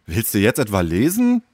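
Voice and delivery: mildly exasperated question; groaning disbelief. Acted. Leo sees Tom fetch a thick book, mildly groaning. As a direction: ask with a touch of groaning disbelief. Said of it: "stöhnte Leo".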